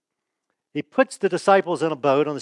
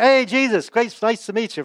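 mock cheerful greeting; 6 semitones higher than usual. Pastor mocking how the disciples didn't greet Jesus, hammed-up cheer. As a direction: play the disciples as if they casually waved hello.

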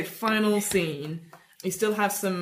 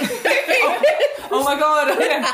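gleeful cry; 8 semitones higher, 6 dB louder, much slower than usual. Acted. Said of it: "And you go".

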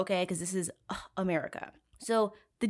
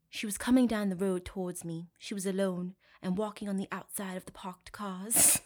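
mock English affectation; put-on British voice, trailing softer; fake British accent; 4 dB quieter than usual. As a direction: imitate him in a phony British accent. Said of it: "speak in a fucking fake British accent".

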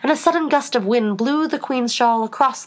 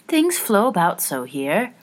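put-on slow, plaintive child's complaint; lightly forlorn, unhurried; slower than usual. A narrator's reading. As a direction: complain mildly, drawing it out. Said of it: "said at last in a plaintive tone".

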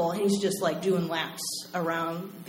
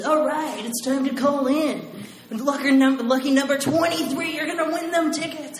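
radio announcer; 6 semitones higher than usual. Retold or imitated. Radio DJ announcing the winner to listeners, hyped. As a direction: pump it up like a morning radio host.

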